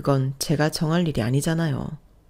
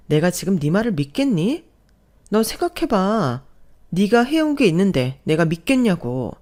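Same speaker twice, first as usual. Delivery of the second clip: mildly heated rebuke; a touch of exasperated anger; indignant disbelief; 3 semitones higher, 3 dB louder than usual. Acted. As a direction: throw the plea back with indignation. Wife rejects husband's plea in quarrel.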